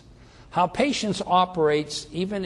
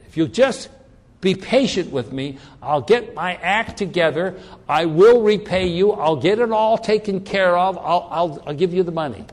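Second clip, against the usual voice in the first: pleading debtor; 4 semitones higher, 4 dB louder than usual. Retold or imitated. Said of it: "here's the statement".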